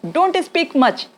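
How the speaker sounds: slow demo. Shown as a demonstration. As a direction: drill it slowly. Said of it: "क्या बोलेंगे".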